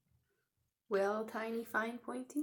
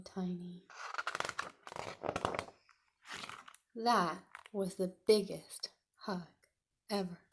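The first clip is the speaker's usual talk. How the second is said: whispered thanks. Acted. Teacher whispering thanks to Tiny after the hug. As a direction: whisper it fondly.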